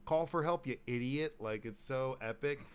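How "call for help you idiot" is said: higher, mock-scolding TV host; hammed-up host ordering viewers; Dennis Farina. Host urging viewers to help, mock scolding. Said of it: "so he's like".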